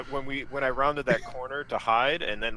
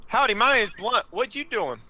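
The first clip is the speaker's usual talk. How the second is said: hammed-up cowboy greeting; 9 semitones higher than usual.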